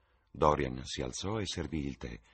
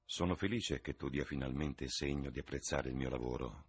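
cold and low, cutting; icy voice; 4 semitones lower, 4 dB quieter than usual. Acted. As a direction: say it with icy restraint. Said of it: "con voce gelida".

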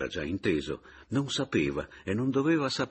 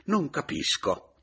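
dazed; 8 semitones higher, 4 dB louder, slower than usual. A narrator's reading. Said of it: "fece il Paleari stordito".

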